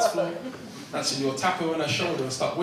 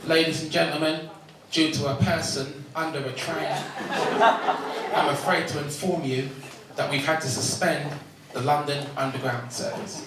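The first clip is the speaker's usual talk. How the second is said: announcer. Retold or imitated. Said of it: "heard this one".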